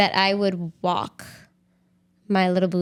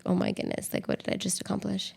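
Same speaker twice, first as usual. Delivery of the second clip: awed whisper; 7 dB quieter than usual. Pretend. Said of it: "an overwhelming feeling of, like".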